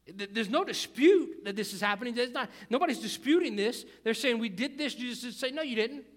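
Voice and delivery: loud, insistent sermon delivery; forceful preaching. Real, not acted. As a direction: press the point hard to the congregation.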